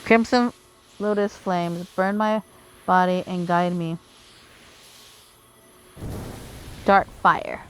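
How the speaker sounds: earnest, grand fantasy villain reading; lightly voiced villain. Rolo vows to burn the monsters, grand villain delivery. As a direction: read Rolo's lines as a driven sorcerer. Voices Rolo's game dialogue.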